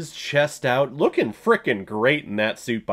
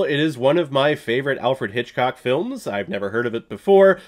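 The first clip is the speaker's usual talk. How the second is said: ordinary delivery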